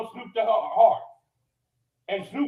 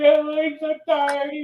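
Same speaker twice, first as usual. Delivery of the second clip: mock complaint, pitched higher and dragged out slowly; mocking whiny imitation; 5 semitones higher, slower than usual. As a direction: ape her lazy whining, higher and slow. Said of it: "sit up here and say".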